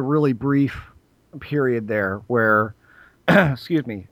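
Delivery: throat catching, voice going; clearing a tired throat; losing voice. Real, not acted. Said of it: "I've completely lost my voice".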